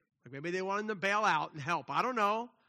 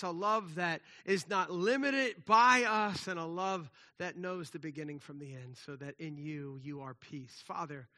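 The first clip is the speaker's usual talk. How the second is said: earnest spoken prayer; closing pastoral prayer. Real, not acted. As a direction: pray sincerely over the congregation. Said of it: "Let me pray".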